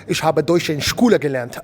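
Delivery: committed German pronunciation, "Ich habe Deutsch in Schule gelernt" with throaty ch and rolled vowels; full German accent. Shown as a demonstration. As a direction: get into character, proper German accent. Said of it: "You gotta go for it".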